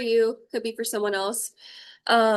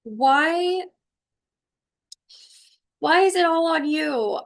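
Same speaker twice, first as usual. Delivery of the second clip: higher, pushed, drawn-out question; exasperated demand; 5 semitones higher, 4 dB louder, slower than usual. Acted. Medium channelling an overburdened caregiver, exasperated. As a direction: voice someone fed up at carrying it all. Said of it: "I'm just feeling this energy of".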